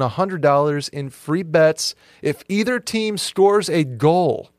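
upbeat sponsor ad read. Acted. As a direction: pitch it like a radio spot. Host reads sponsor ad.

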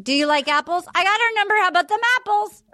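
mock audition, rising on her; movie monologue. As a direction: deliver it like a callback. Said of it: "my monologue from Good Will Hunting".

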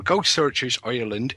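hammy, overdone Irish accent; a deliberately terrible Irish brogue; bad Irish accent. Shown as a demonstration. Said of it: "in my worst Irish accent".

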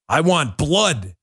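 slow, low mock-menacing quote; mock vampire menace. Host mocking a supposed agitator's line, in mock vampire menace. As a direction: intone it slowly, lightly sinister and low. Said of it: "what are you, freaking Nosferatu?".

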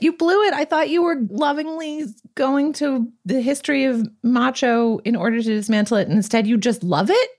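mock scolding. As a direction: tell the film off, hammed up. Scolding the film, acted.

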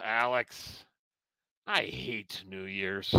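lightly voiced grumpy old man; old man rant. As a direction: grumble like a cranky old man. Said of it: "Let's go to your old man rant".

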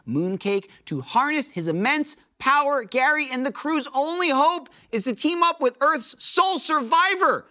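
dramatic trailer voiceover, building high; space opera narrator. Acted. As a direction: epic sci-fi trailer narration.

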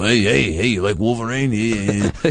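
lightly voiced Tony Danza, New York; doing his best Tony Danza. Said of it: "You're doing Tony Danza".

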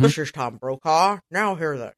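Tom Brokaw impression. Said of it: "easy to mock or mimic or do an impression".

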